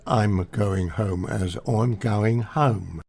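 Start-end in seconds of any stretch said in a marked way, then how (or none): 1.7-3.0 slow East End London vowels; old East End accent. Shown as a demonstration. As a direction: say it like an old-time East Ender. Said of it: "East End Londoner would pronounce".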